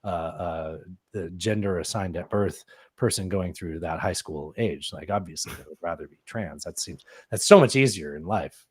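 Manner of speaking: mock-earnest argument, trailing into muttered asides; sarcastic. Real, not acted. Co-host sarcastically arguing being trans is convenient, sarcastic. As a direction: make the absurd case with dry sarcasm. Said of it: "I understand you're being sarcastic".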